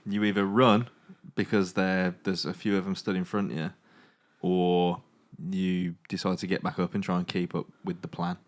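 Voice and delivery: steady storytelling narration; game master narration. A narrator's reading. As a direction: narrate the scene to the players. Game master offers options.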